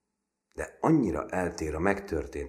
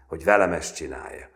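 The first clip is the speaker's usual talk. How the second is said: loud, cocky dare; swaggering bluster; boasting; 2 semitones higher, 8 dB louder, faster than usual. A narrator's reading. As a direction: throw it out as a loud brag. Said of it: "roppantul hetvenkedett".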